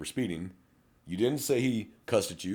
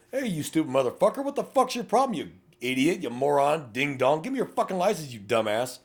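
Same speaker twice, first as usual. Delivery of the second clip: much higher, shouted abusive insults; rude cop demo; 7 semitones higher, 3 dB louder than usual. Shown as a demonstration. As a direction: bark at the driver like a rude officer. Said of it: "let's flip the scenario".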